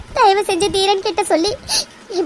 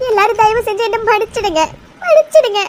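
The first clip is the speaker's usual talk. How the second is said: desperate apology; 3 semitones higher than usual. Acted. Daughter begging the whole family for forgiveness, rising to a cry. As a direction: beg them all to forgive, voice breaking upward.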